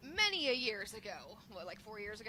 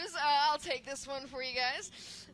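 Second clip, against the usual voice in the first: laughing; 5 dB louder, slower than usual. Real, not acted.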